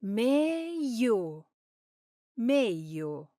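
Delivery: "Meglio." as Roman "meio", no gli; Roman-style "Meglio.", gli dropped to i; roman accent. Shown as a demonstration. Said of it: "if you spend time in Rome, you'll often hear".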